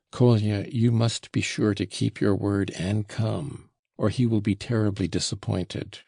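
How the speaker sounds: mildly emphatic urging on "must be sure". A narrator's reading. Friend urging Kolya to keep his word, emphatically. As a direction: press "must be sure" firmly. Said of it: "Alyosha said emphatically".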